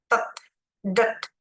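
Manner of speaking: "Tet" and "det" said crisply as syllables; ED endings sounded. Shown as a demonstration. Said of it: "Et-nya dibilang".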